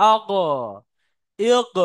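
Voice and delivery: আগ, ইগ with the final গ as a throaty gh; ghayn articulation demo. Shown as a demonstration. Teacher shows where ghayn strikes, demonstrating. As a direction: push আগ and ইগ against the throat, separately. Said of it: "ওই গইনে যেখানে ধাক্কা লাগছে".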